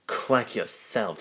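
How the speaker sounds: indignant, slow retort. Acted. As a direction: snap it back, offended. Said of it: "said Duck indignantly".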